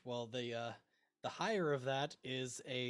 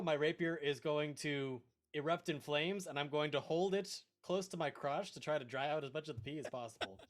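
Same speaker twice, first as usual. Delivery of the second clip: ordinary talk, nothing marked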